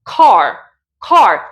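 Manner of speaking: "Car" with a long rounded back A; rounded British car. Shown as a demonstration. Teacher modelling the rounded vowel in "car". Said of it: "Notas cómo cambia".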